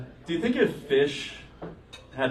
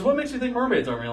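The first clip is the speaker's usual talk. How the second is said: imitating dad; 10 semitones higher than usual. Dad quoted challenging.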